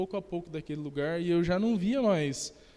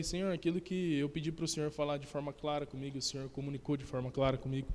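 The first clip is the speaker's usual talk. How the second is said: much softer, reverent thanks; hushed prayer; 3 semitones lower, 9 dB quieter than usual. Retold or imitated. Thanking God for speaking clearly, soft and reverent. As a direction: murmur it to God, moved.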